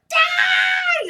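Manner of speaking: very high, loud mock shriek; retold battle cry. Spraying the bug in the bathroom, mock shriek. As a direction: scream it at the enemy, hammed up.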